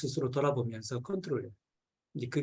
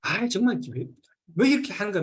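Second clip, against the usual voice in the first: angry outburst; 4 semitones higher than usual. Retold or imitated. Recalling snapping at his big sister in mock anger. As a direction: replay a sudden burst of temper. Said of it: "불같이 화를 확 내더라고, 이렇게".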